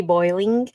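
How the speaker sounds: "boiling" with a full oy vowel; standard boiling. Shown as a demonstration. Streamer giving the proper "boiling" with full oy, standard pronunciation. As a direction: sound out the oy in "boiling" carefully. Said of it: "I guess it should be".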